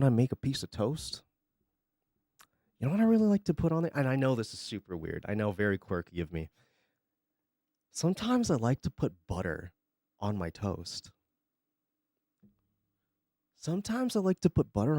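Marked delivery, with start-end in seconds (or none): 3.9-6.5 mock quirky confession. Mocking bland food confessions. 7.9-11.1 mock shy confession.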